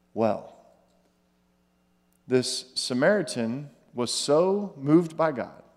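slow, soft, low sermon close; softly preached reflection; hushed preaching. Acted. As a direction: draw them in quietly. Quiet closing scripture reflection.

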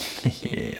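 small smirking snicker, unvoiced and soft; devilish snicker. Acting out Lunch's smiling sound effect, devilish snicker. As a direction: imitate a sly cartoon snicker. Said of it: "smirking, kind of, you know, like, devilish".

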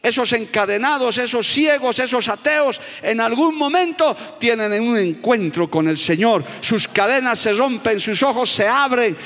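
full-force sermon voice; fervent preaching. Acted. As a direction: stir up the congregation.

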